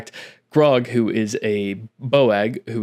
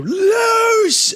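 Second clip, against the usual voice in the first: very high, loud battle order; guard commander ordering the archers to loose; commander's shout; 5 dB louder than usual. Acted. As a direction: yell the order to fire. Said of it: "we hear the guard commander go".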